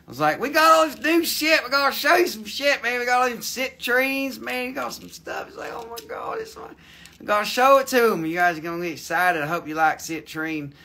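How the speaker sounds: a country bumpkin voice, lightly put on; hammed-up hillbilly drawl. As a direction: play a rowdy rural hick hosting the show. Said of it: "talk funny".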